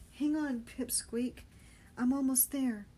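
put-on Benny yelling to the dangling boy. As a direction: shout reassurance across the chaos. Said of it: "Benny yelled over the chaos".

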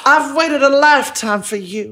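put-on slow Southern-accented belle. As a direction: play a longing Southern belle, drawing it out. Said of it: "as this kind of Southern belle".

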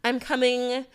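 lightly put-on pretty girl voice; Amanda. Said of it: "pretty girl voice sound like a white girl named Amanda".

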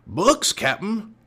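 high, drawn-out henchman call; shouting down. A narrator's reading. Pinky reporting down to Captain Bones, shouted call. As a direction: call down as a pirate lackey. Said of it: "Pinky shouted down".

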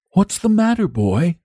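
gentle saintly concern, lightly acted; kindly inquiry. A narrator's reading. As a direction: ask a crying child kindly. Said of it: "he inquired kindly".

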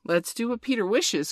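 lifted, eager exclamation; eager cry. A narrator's reading. Boys obeying a Peter order, eager cry. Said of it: "cried the boys".

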